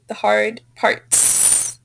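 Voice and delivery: slow "parts" with the final s drawn out; demonstrated correction. Shown as a demonstration. Teacher offers a student another option, slow "parts" with clear s. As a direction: stretch the plural ending of "parts". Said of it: "or you can say".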